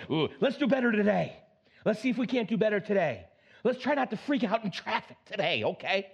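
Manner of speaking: bright coaxing self-talk; cheerful nudge to the man in the mirror; encouraging myself. Retold or imitated. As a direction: coax yourself into a good day. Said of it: "talking to myself in the mirror".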